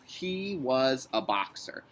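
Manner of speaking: slow dictation. Shown as a demonstration. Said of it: "That's what I'm gonna do".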